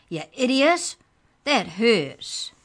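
loud, high, indignant squeak; a tiny creature scolding its attacker; high squeaky rage. Acted. The book elf scolds Trent for throwing it, squeaky and loud. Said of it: "The book's voice was high and squeaky".

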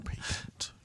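whispered psychic prophecy; mock mystical whisper. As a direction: breathe the word like a seer. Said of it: "A little psychic voice kicked in".

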